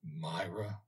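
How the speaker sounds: hushed, almost to himself; soft repetition. A narrator's reading. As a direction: breathe the name softly, in wonder. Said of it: "repeated the old gentleman".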